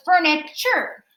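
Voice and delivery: FURNITURE broken as fur-ni, chur; syllable by syllable. Shown as a demonstration. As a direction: sound out FURNITURE with a separate "chur". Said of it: "you say chur".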